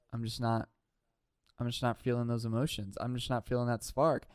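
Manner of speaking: low, subdued voice for the Bachelor; imitated soft letdown. Imitating the Bachelor rejecting Hannah Ann, low and soft. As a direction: quietly mimic him letting her down. Voicing Bachelor letting a woman down.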